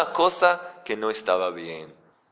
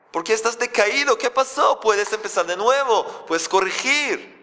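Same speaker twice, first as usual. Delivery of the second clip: higher, gently urging question; caring Creator; 8 semitones higher than usual. Acted. The Creator asking Cain what happened, higher and coaxing. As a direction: coax him to start over. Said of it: "Eso es lo que le importa al Creador".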